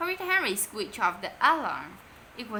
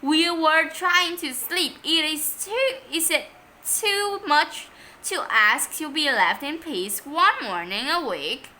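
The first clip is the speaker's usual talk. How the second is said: higher, louder angry scolding; furious; 7 semitones higher, 7 dB louder than usual. A narrator's reading. Woken Mom scolding the boys, angry. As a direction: let the outrage spill over. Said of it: "She looked furious".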